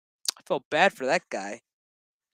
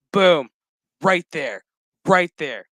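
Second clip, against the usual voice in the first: emphatic; 7 dB louder than usual. Real, not acted. Pointing at the screen.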